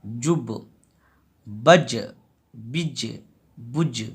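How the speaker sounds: final consonant bounced with a small echo; qalqala echo. Shown as a demonstration. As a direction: let the last letter knock and rebound. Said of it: "आखिरी में आवाज़ निकल रहा है".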